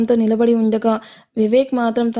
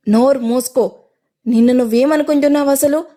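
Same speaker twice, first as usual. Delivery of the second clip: louder, raised angry roar; furious shout; 3 semitones higher, 4 dB louder than usual. Acted. Tarak roars at Sakshi before everyone, furious shout. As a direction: bellow at her in fury. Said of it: "అని తారక్ ఆగ్రహంగా అరిచాడు".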